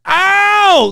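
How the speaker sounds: high, loud whoop of hype; excited whoop. Retold or imitated. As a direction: cheer the twist like a fan. Hyped about a cliffhanger.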